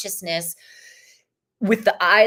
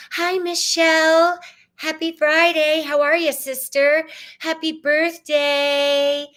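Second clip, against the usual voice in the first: high, bright hello; excited greeting; 8 semitones higher, 4 dB louder than usual. Real, not acted. Greeting viewer Michelle, higher and louder. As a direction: greet her with a burst of joy.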